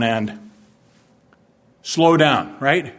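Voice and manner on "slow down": firm, louder admonition; clipped police warning; policeman's warning. Retold or imitated. Policeman warning a speeding driver, firm and louder. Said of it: "He said".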